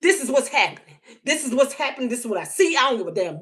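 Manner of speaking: rising to an angry shout; high heated outburst, mostly shouted; defiant rant. Retold or imitated. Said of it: "I'm not gonna sit here and tell myself".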